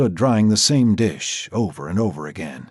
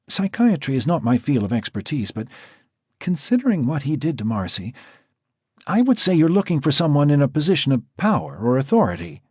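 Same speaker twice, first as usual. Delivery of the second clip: higher, measured professional woman's voice; Natasha the doctor; 6 semitones higher than usual. A narrator's reading. Natasha explaining the profile to Jack, higher and measured. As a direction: speak as the composed doctor.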